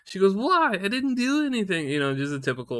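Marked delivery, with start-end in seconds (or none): 0.3-1.9 very high imitation of innocent wife; white girl whine. Wife protesting her innocence, mocked in high girly voice. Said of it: "like, white girl shit".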